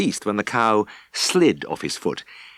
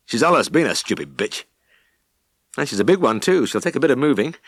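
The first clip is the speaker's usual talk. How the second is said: lightly voiced gruff farmer, a bit higher; farmer Daggett voice; 5 semitones higher than usual. Farmer grumbling to the vet about his cow.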